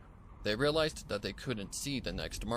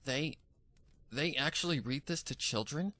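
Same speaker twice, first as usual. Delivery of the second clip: shocked disbelief; 5 semitones higher than usual. Acted. Pony shocked by the story.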